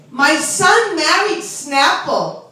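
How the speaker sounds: lightly voiced bragging mothers; one-up each other on the children's marriages; a hint of Long Island parlor lady; beauty parlor ladies. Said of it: "This is how they really talk".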